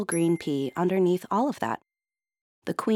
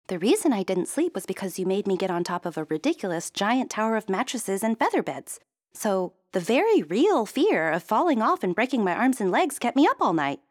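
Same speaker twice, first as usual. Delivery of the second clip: a touch higher, building indignation; exasperated princess; 5 semitones higher than usual. Acted. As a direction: princess explaining her fear, mildly irked. Princess voice in story.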